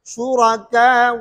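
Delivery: शुरका with a short आ gliding into a faint wu; qasr, rom on waw. Shown as a demonstration. Teacher showing rom with ibdal, short madd into waw. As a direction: keep शुरका short, ending on a partial waw vowel. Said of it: "कसर है".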